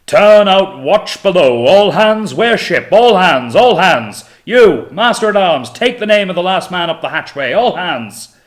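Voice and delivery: very loud, high, slow bellowing orders; bellowing boatswain. Acted. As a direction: roar the orders across the whole ship. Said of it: "the bellow of Waldron".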